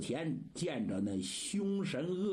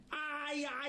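惊呼; 11 semitones higher than usual. Acted. 长老闻听噩耗惊呼.

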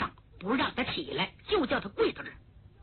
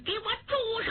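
high-pitched commanding cry, stretched out without much volume; narrated shout; 9 semitones higher, faster than usual. A narrator's reading. Zuo Qinglong ordering the nun to stop, shouting. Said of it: "左青龙大喊一声".

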